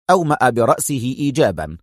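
plain reading voice

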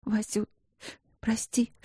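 soft whispered apology. A narrator's reading. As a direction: breathe out the sorry. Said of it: "пролепетала она".

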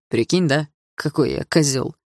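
snorting irony. Acted. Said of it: "хмыкнул Лёха".

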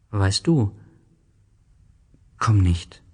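hushed unvoiced plea; whispered warning. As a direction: whisper it urgently. Dann wurde er wieder ernst. (geflüstert, ernst)

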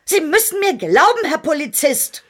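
caught-out woman pleading with the inspector; insistent pleading. Acted. Informant caught lying, insisting.

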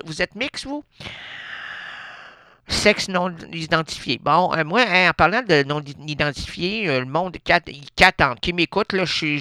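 a customer holding up the line, fussing over her tickets; a singer's comic character. Acted. A customer holding up the lottery line, lightly voiced lady.

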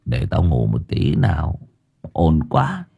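put-on low, groggy drunken grumble; drunk sleepy grumble. A narrator's reading. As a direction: grumble from under the blanket. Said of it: "vẫn còn đang trong cơn say". (giọng say ngủ càu nhàu, trầm)

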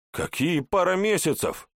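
high indignant yell. A narrator's reading. Hawk hears "a couple of months" and yells in outrage. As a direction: bellow it in outrage. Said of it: "орёт ястреб".

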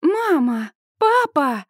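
high calling shout. A narrator's reading. Daughter shouting again to her frozen parents. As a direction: call out to them again. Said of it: "снова кричу я".

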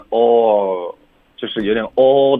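slow "all" with rounded lips, like oh; pouted vowel. Retold or imitated. Teacher imitating student's error, rounded "all". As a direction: pucker "all" toward "oh". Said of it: "你撅嘴了".

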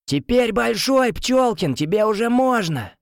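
high, slow yell from the street. A narrator's reading. Friend yells up at birthday boy, hollering. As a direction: shout it up to the window. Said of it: "взбалтывает бутылку шампанского и орёт".

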